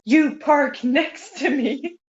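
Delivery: put-on mean Swedish accent. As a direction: do mom's stern Swedish English, laughing through it. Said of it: "she sounds mean".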